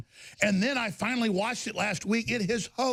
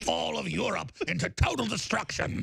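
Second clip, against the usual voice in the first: put-on authoritarian British accent; faster than usual. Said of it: "Very authoritarian British accent".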